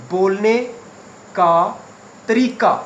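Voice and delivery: बोलने, का, तरीका said one word at a time with pauses; dictation. Shown as a demonstration. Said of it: "accent का मतलब होता है". (रुक-रुक कर लिखवाना)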